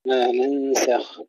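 nasal hum held long on ننسخ, kept light; slow ما ننسخ with thin seen, heavy final kha; light ghunna. Shown as a demonstration. Teacher shows students ما ننسخ, light drawn-out ghunna. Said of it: "الغنة مرققة وكذلك السين".

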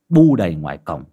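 ordinary delivery

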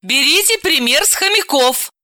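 preachy, instructive suggestion; didactic. Acted. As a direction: advise him like a schoolteacher. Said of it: "назидательно предложила Далила".

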